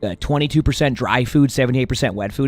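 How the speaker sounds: angry commenter rant. Retold or imitated. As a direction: rant at the cat owner, half-hammed. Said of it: "one of the comments is like".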